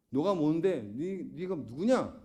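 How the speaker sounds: mock accusing questions, drawn out at the end; imitated indignant accuser; confrontational challenge. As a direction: challenge their authority, lightly acted. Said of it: "오히려 예수님이 따집니다".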